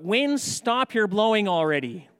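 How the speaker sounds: hammed-up bossy shouting at a thunderstorm; calling out. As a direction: yell orders at the weather, half in jest. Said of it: "someone next to you calls out".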